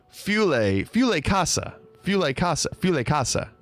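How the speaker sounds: Fule Casa said FYOO-lay KAH-sa; playing with the new pronunciation; canon pronunciation. Shown as a demonstration. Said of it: "new pronunciation is canon".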